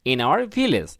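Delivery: "There is a school in our village" read very slowly, each word apart; teacher reading a model sentence slowly; slow dictation read. Shown as a demonstration. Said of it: "আমরা কি লিখবো".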